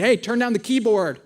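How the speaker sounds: mild reenacted call over loud music; retold yell. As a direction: raise the voice a little, without anger. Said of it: "And so then I yell".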